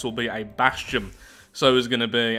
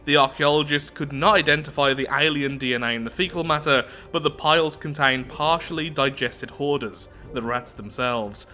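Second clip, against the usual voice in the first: measured read-aloud narrator voice; story narration; 2 semitones higher than usual. Acted. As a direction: read the lore out evenly, like an audiobook. Reads game event text.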